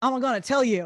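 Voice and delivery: playful, cheeky, fun and sassy delivery. Imitating how the voice tool reads a phrase: imitating a fun, sassy delivery. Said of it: "in a kind of fun, sassy way".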